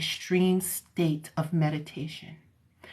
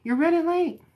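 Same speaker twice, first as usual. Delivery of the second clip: higher, louder urgent call; family calling out; 11 semitones higher, 6 dB louder than usual. Acted. Family member hurrying Kiero along, high nagging call. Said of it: "Did your family always say".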